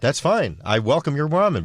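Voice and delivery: normal talking voice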